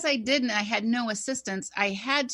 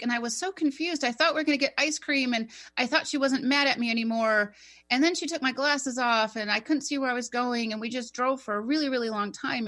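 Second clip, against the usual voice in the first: lightly voiced seven-year-old, higher and quick; little boy's account; 4 semitones higher, faster than usual. Medium retelling a confused boy's car ride, lightly voiced child. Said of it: "And he's like".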